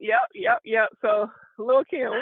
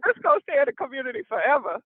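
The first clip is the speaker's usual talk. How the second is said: proud declaration; 2 semitones higher, faster than usual. Retold or imitated. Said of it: "You're like".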